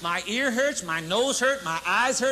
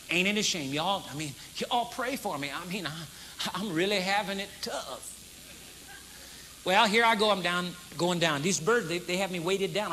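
mock woe; 4 semitones lower, 6 dB quieter than usual. Acting burdened whiner.

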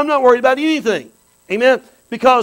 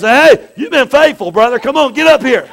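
voicing Jesus; 3 semitones higher, 4 dB louder than usual. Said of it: "he goes".

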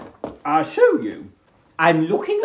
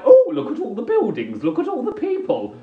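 acted wonder; 9 semitones higher, faster than usual. Acts marvelling on a walk.

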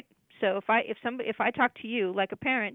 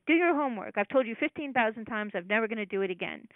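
mean parent. Retold or imitated. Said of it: "critical parent that says things meanly".

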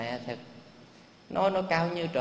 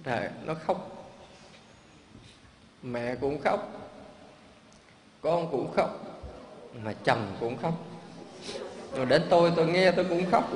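monk's voice thins as the sad story ends; choked up. Real, not acted. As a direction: let the voice drop away near tears. Moved preacher telling sad ending.

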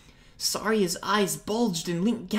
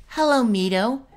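greeted warmly; 6 semitones higher, 6 dB louder than usual. Acted. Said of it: "she greeted warmly".

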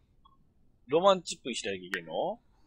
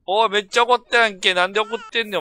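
much louder and higher, half laughing; startled shout; 8 semitones higher, 9 dB louder than usual. Real, not acted. Streamer yelling at his angry sim, startled laughing shout. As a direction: shout in disbelief at the screen.

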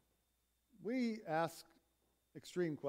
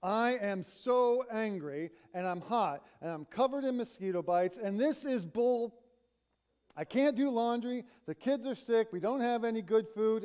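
a touch louder, rising complaints; mock rant piling up grievances; retold venting; 4 semitones higher, 3 dB louder than usual. Brown venting to her friend about the storm, mildly heated. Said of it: "Brown sounds off".

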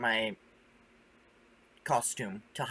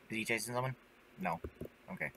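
whispering; 10 dB quieter than usual. Real, not acted. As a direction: whisper it, scared to be heard. Hiding quietly, searching.

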